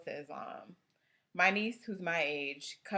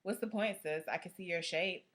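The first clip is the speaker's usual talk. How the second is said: lightly voiced disapproving busybody, slightly raised pitch; hijabi police. Hijabi police criticising a sister's outfit, lightly mocked scolding. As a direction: lightly act out a nitpicking sister. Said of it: "Or my favorite".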